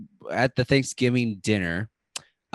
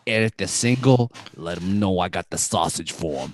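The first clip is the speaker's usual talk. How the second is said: lower-pitched New York Italian wise guy; New York Italian accent; 4 semitones lower than usual. Acted. Staten Island character sends hello to their mothers, New York Italian accent. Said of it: "I'm done with Staten Island".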